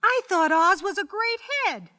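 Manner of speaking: put-on puzzled child speaking up; young girl. A narrator's reading. Dorothy challenges the little man about Oz, in a young girl's voice.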